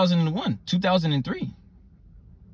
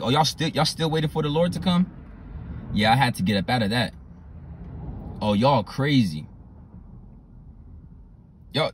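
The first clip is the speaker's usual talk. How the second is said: mocking scoff; 2 semitones higher than usual. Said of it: "Now he's kinda laughing at you".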